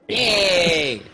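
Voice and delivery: loud, high drawn-out cheer. Real, not acted. Player celebrating the healing roll, cheering. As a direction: whoop it out long, falling from a high start.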